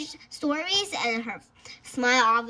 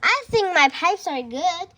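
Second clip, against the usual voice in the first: giggling; 5 semitones higher, 5 dB louder than usual. Acted. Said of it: "Carter giggled".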